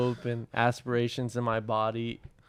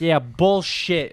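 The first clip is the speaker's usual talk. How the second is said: slow, higher scoffing mom; retold disbelief; 5 semitones higher, much slower than usual. Son imitates his mom doubting him, scornful disbelief. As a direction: imitate a mom who isn't buying it.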